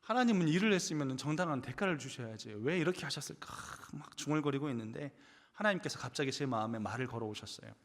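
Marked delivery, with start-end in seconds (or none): 0.0-3.5 mildly grumbled complaint, starting very soft; grumbling to God. Retold or imitated. Preacher recalls grumbling to God over unfair wages, mild grumbling. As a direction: re-enact muttering a grievance, lightly. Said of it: "막 궁시렁궁시렁 하는 거예요".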